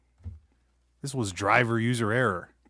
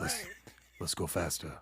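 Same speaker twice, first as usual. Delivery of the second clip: low, soft mock whisper; hushed, coaxing undertone; whispering in ear; 7 semitones lower, 11 dB quieter than usual. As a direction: murmur it secretly into a horse's ear. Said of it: "You just whisper in his ear".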